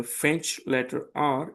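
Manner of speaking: R gargled softly at the back of the throat; French letter R, throaty R like a gentle gargle. Shown as a demonstration. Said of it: "pronounced from the back of the throat like a gentle gargle".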